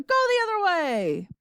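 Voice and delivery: high, panicky yell; yelling grandma. A narrator's reading. Grandma demanding the elevator turn round, yelled. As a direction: yell the order with pitch way up. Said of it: "yelled Grandma Georgina".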